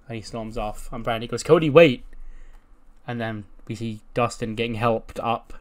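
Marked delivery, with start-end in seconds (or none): 1.4-2.0 raised, higher and louder shout; urgent mock call; acted calling after someone. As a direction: imitate calling to stop someone storming off. Acts out calling after him storming off.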